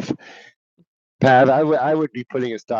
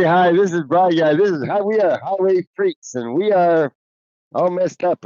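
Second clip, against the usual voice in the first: much higher mock radio intro voice; Bry Guy impression; 10 semitones higher than usual. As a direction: ham up the host's intro. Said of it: "give us Bry Guy's intro".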